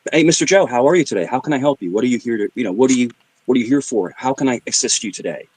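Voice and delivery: smooth salesman greeting a customer; lightly put-on helpful sales voice. Shown as a demonstration. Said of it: "That's your salesman voice".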